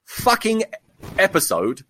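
seething, then pitch jumps up in exasperation on the lost episode; angry. Real, not acted. Podcaster venting about losing a whole recorded episode, angry. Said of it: "I am so fucking angry".

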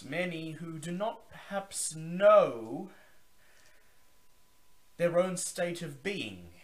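high, loud, grand vampire host's welcome; Zachary Forge. Acted. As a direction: boom it out like a theatrical old vampire. Zachary addresses the room.

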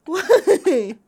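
breaks into loud laughter; laughing. Real, not acted. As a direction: ask it while cracking up. Bursts out laughing mid-sentence.

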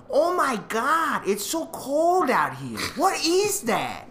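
put-on high, slow older Asian lady accent; loud-ish impression of an Asian lady's accent. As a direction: imitate a tiny older Asian woman's thick accent, drawn out and high. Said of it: "that's actually how she sounded".

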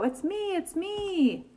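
lightly voiced high cow. A narrator's reading. Unmasked cow to the guessers, lightly voiced reveal. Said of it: "says the cow".

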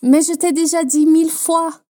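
acted exasperation, firmly pushed; moderately cross, modelled for learners to copy; angry, impatient. Shown as a demonstration. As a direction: demonstrate an impatient, irritated French retort. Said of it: "fazendo a entonação de raiva e de impaciência".

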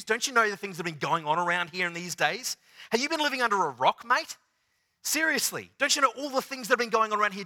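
like someone can't believe you missed the news; exasperated disbelief. Retold or imitated. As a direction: disciples scolding the stranger, fast and exasperated. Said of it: "you can imagine the tone of the disciples".

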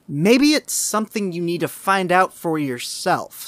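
reaching for an explanation, mildly acted; emphatic, a touch hopeful suggestion; clutching at straws. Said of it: "with a faint air of clutching at straws".

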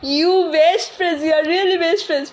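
mock crying. Grandson whines about the milk.

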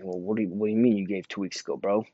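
imitated tough-guy challenge, lightly done; quick opening, then goading him with each "bro"; mock stepping up to someone; bucking up. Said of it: "buck up and tell me".

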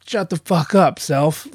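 mock-stern self-rebuke; scolding himself. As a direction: act out telling your own doubts off. Scolding himself in retold inner argument.

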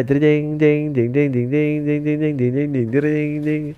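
jreng jeng jeng strummed with the mouth; vocal guitar strums. Retold or imitated. Comic imitating a band guitar riff.

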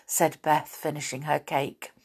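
put-on lively storybook reading to a child; story narration. A narrator's reading. Parent reading the Faraway Tree to a child, lively storytelling. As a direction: read it like a bedtime chapter, voicing each part. Reads a bedtime chapter aloud.

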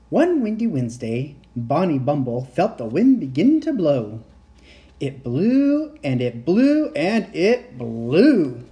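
lively storytelling with swooping emphasis; bedtime story narration. A narrator's reading. The narrator reading a windy tale to children, animated storytelling. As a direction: read to small children, stretching the key words. Reads a picture book to children.

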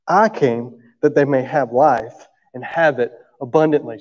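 slow, deliberate scripture reading. Acted. Preacher reading John ten aloud to the congregation, slow and solemn. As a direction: read the verses weightily, pausing.

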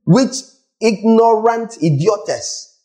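"idiotes" drawn out slowly, each syllable separate; spelling out the Greek "idiotes"; Greek word stressed. Shown as a demonstration. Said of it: "that's the Greek word".

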